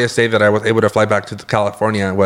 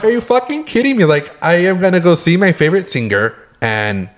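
much higher, laughing outraged yell; angry disbelief; 7 semitones higher than usual. Retold or imitated. Venting at covid canceling the concert, outraged yell. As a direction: shriek it in mock fury. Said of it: "it's making you mad again".

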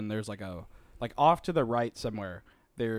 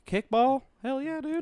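high, eager cheer; excited; 11 semitones higher than usual. Real, not acted. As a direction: hype it up like a fan. Excited about kickball.

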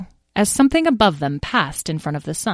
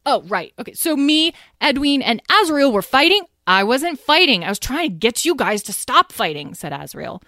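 excited chatter; 8 semitones higher than usual. A narrator's reading. Lyle excitedly retelling.

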